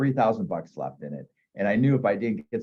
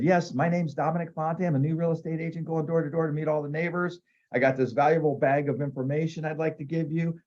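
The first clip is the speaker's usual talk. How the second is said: higher, overly eager salesman pitch; 5 semitones higher than usual. Retold or imitated. Rookie agent pitching the homeowner at the door, eager.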